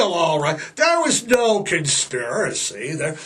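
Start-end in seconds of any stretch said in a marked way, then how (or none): 0.8-2.9 sarcastic. Real, not acted. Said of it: "can you hear the sarcasm".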